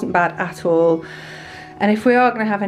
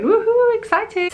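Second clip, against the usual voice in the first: high squealing cheer; excited woohoo; 12 semitones higher, slower than usual. Retold or imitated. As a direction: squeal it with glee. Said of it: "keep coming back ... and going".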